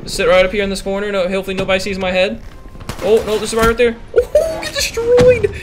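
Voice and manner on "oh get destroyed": laughing gloat. Real, not acted. Gamer gloating after kill.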